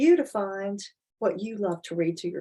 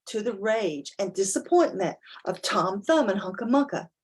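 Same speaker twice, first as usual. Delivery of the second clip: lively storybook narration with big rises; reading to children; 3 dB louder than usual. A narrator's reading. Parent reading a picture book aloud to children, animated storytelling. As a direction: read it out to your child with wide-eyed emphasis.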